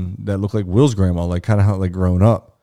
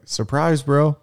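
high-pitched, playful announcement; teasing reveal; 7 semitones higher, much slower than usual. Retold or imitated. Friend reveals a surprise to the dreamer, teasing. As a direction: imitate a friend springing a surprise.

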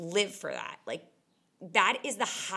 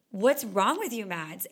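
mock self-scolding; 5 dB louder than usual.

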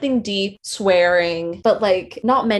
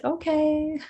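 high, unhurried dog voice; dog's reluctant okay; 8 semitones higher, 4 dB quieter than usual. Retold or imitated. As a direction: voice a dog in no rush to get up. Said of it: "it's not like she's quick".

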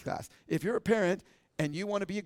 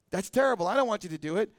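lightly acted wife, higher and louder; imitated disapproving wife; mock objection; 4 semitones higher, 4 dB louder than usual.

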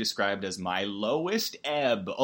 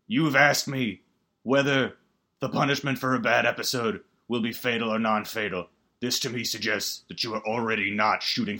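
lightly voiced calm horror villain; a hint of a menacing killer, measured; understated sinister game master; Jigsaw voice. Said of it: "I'm sorry, Jigsaw".

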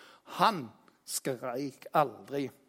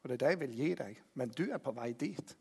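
gentle promise; 2 semitones lower, 6 dB quieter, faster than usual. Retold or imitated. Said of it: "det var en som sa".

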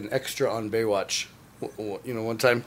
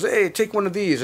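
generous offer; 7 semitones higher than usual. Retold or imitated. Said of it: "And then he goes".

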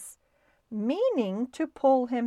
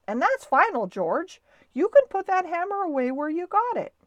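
raised, emphatic command; firm order; 8 semitones higher, 6 dB louder, faster than usual. Acted. Mister Little forbidding George to rip up floor, firm order. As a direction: lay down the law loudly.

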